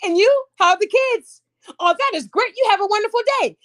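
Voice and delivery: lightly put-on office small talk; polite work voice. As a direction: chat up a coworker with put-on pleasantness. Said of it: "people right now that go to work every day".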